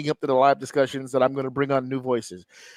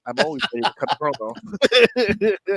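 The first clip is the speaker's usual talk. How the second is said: wrestling promo; 2 semitones higher than usual. Pretend. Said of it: "That's my secret, Cap".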